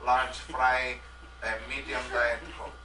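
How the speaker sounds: lightly put-on Russian accent; a hint of a Russian leader. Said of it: "I am Russian Boris".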